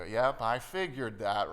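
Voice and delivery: slow, knowing tease; a dry told-you-so; teasing. Shown as a demonstration. Jesus gently ribbing the fishermen, slow and teasing. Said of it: "in a half-teasing manner".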